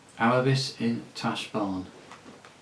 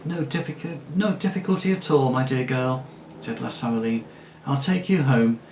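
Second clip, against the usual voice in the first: breezy lady; 2 semitones higher than usual. Acted. La Saraline breezy.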